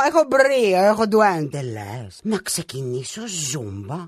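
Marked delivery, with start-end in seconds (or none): 1.6-4.0 timid question. Acted. Hesitant question.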